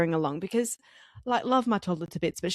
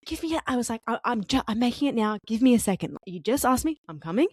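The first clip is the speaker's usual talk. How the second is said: mildly exasperated mum, imitated; retold fed-up parent fending off a toddler; a touch of impatience; frustrated; 3 semitones higher than usual. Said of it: "I'm so instantly frustrated".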